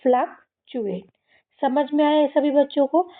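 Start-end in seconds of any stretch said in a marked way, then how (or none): 0.0-1.0 "फ्लक्चुएट" slowly in two parts, fluk, chew-ate; model pronunciation. Shown as a demonstration. Teacher repeating the answer for kids, "फ्लक्चुएट" slowly modelled. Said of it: "क्या हो जाएगा".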